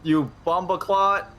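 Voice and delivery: put-on Jamaican accent. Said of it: "you better do it in a Jamaican accent".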